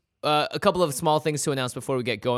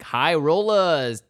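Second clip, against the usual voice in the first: slow, drawn-out, louder; dramatic announcement; 6 semitones higher, 7 dB louder, much slower than usual. Acted. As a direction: drag out the title.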